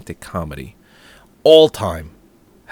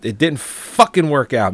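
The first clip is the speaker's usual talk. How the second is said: angry rant; 4 semitones higher than usual. Real, not acted. Ranting about lost hockey game.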